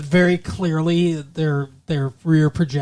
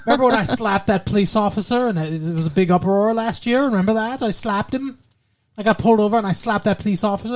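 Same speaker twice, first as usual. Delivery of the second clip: bad mock Hungarian accent, pitched higher; hammed-up Hungarian diva, a little higher; a poor imitation of Zsa Zsa's Hungarian accent, raised in pitch; 5 semitones higher than usual. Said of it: "That does not like her at all".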